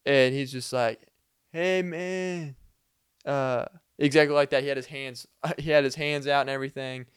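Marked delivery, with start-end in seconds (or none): 1.5-2.6 put-on higher-pitched Hispanic accent. Man at the door greeting the sleepy resident, Hispanic accent. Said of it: "doing this whole Hispanic accent".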